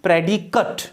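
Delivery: "प्रेडिकेट" with schwa before the final T; correct noun pronunciation. Shown as a demonstration. Teacher answers own pronunciation question, "प्रेडिकेट" ending "-kut". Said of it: "क्या है इसका pronunciation?".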